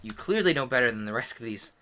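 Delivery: conspiratorial whisper. Acted. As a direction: whisper it slyly, aside. Nick's sly aside.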